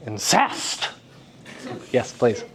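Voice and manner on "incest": "Incest" with a punched, rising final syllable; stress on second syllable. Shown as a demonstration. Teacher querying odd pronunciation, "Incest" stressed on its last syllable. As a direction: throw all the weight onto the "cest" of "Incest". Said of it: "Is that how you say incest?".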